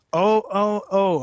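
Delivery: high, loud hammed-up moans; mock scream. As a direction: ham up the fan-fiction moan. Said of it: "I screamed".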